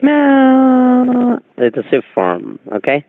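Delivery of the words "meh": a very high mocking bleat; goat bleat. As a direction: bleat like a sheep to mock. Scammer bleats again.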